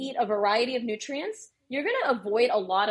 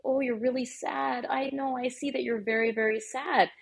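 put-on soothing to baby; 3 semitones higher than usual. Shown as a demonstration. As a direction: soothe a sad baby gently. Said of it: "you can start doing this".

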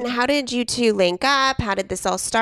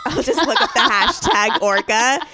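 laughing. Real, not acted. Laughing while telling her habit.

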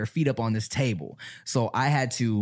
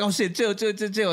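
mock urgent calming; 8 semitones higher than usual. Retelling calming her angry friend.

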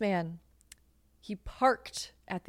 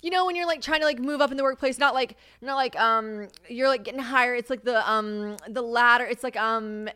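higher-pitched, halting hunt for a word; lightly exaggerated fumbling for words; acting out word-searching; 6 semitones higher, 4 dB louder than usual. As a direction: grope for the word in a raised voice. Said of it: "and I was like".

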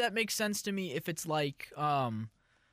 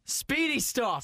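higher put-on British accent; 6 semitones higher, much slower than usual. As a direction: echo it in a raised British voice. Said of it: "saying it with a British accent".

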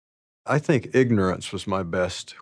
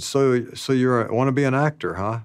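lightly imitated German accent, pitched up; 5 semitones higher than usual. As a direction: do a hint of an old German director's accent. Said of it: "in this German-like accent".

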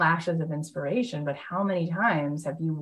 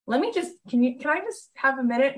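flustered plea; 9 semitones higher than usual. Retold or imitated. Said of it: "And I go".

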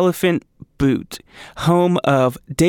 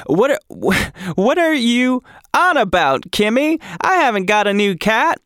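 higher, lightly put-on Cockney old lady; half-hearted Cockney grandma, a bit higher; 8 semitones higher than usual. Host retrying the grandma's line in a Cockney accent. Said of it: "in her very Cockney accent".

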